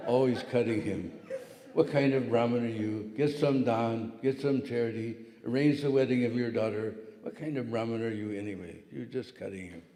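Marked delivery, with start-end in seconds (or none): 1.7-9.8 sharp scolding wife's voice; mock scolding, louder; nagging wife. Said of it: "tongue was like a razor blade".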